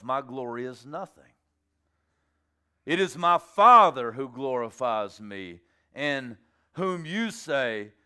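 slow, weighty delivery with punched key words; measured, emphatic dramatic reading; solemn scripture proclamation. Acted. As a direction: declare it deliberately, leaning hard on each emphasis, then drop low to close. Reading Jesus' reply aloud.

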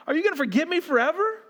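high, fast accusing cry; hammed-up lament at God; mock psalmist yell. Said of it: "He's yelling at".

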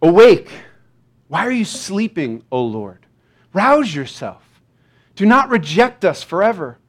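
pleading scripture lament, measured phrases; earnest lament with firm openings; psalm reading. Acted. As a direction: read it as an urgent plea to God, easing off at the end. Reads a psalm of lament aloud.

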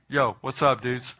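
a light, slangy mock-casual Jesus; casual dude greeting. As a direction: toss it off like a laid-back buddy. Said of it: "No, he didn't say that".

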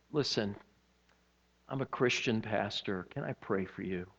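low and soft, retold tenderly; gentle pastoral offer. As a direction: offer comfort quietly, with pauses.

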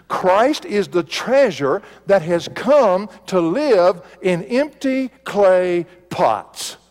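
slow, weighty pulpit delivery; emphatic preaching. Acted. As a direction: preach it word by word, slowly.

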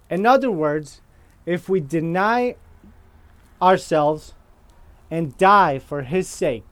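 slow, deliberate phrases with long pauses; measured teaching pace, pausing between phrases; slow reading. Real, not acted. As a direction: read slowly so the congregation follows. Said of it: "I hope I read that slow enough".

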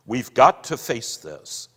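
firm, domineering man's voice; bully her into sense; manly bullying tone. Acted. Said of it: "He was using his manly bullying tone".

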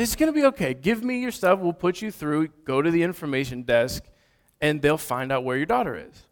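lightly voiced soothing instructions; calm. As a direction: talk a panicked parent down evenly. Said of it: "You're so calm".

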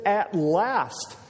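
high, building exclamation; excited relief. Acted. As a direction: cry it out as if the wait is finally over. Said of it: "he was just excited and almost beside himself".

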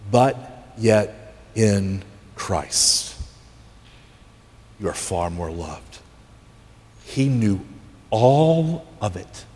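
slow, low and weighty with long pauses; hushed, deliberate reassurance; tender assurance. Real, not acted. Preacher landing a tender assurance.

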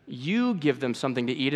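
YOU leaned on with a rise in pitch; stress on YOU. Shown as a demonstration. Jesus answering the disciples, YOU emphasized. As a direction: lean on the first word, You. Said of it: "I emphasized".

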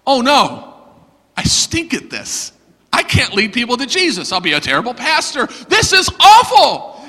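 wallow in failure, building at the end; retold dismay at oneself; despairing self-talk. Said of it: "feeling very terrible".

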